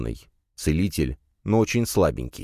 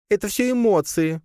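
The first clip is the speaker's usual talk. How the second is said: high spider voice, excusing herself; squeaky spider brushing it off; wriggling out of it. Acted. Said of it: "отмазалась Лея". (высоким голоском, отмазываясь)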